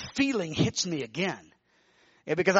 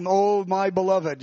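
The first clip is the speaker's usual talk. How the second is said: slow, gentle endearment; tender; slower than usual. Retold or imitated. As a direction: say it like a loving father. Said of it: "It wasn't like".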